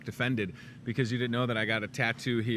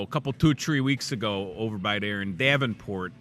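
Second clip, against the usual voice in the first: lightly put-on Chicago accent; a hint of neighborhood Chicago accent; 4 semitones lower than usual. Shown as a demonstration. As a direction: slip into a bit of Chicago talk. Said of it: "that's a Chicago accent".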